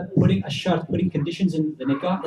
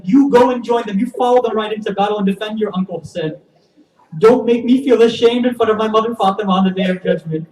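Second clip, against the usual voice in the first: impassioned urging; 4 dB louder than usual. Acted. Zainab urges her sons to battle.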